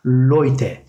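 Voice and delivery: "Leute" said slowly LOY-te; slow German oy in "Leute". Shown as a demonstration. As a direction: model "Leute" with an oy glide. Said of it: "oy koyduğumuz zaman".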